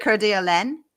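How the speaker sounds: tentative "Coeur d'Alene" as cur-dee-a-LEN, rising; attempted French pronunciation. Shown as a demonstration. Host checks with French guest, tentative "Coeur d'Alene" rising on "len". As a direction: try "Coeur d'Alene" as a question, ending in "len". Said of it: "let's say it the French way".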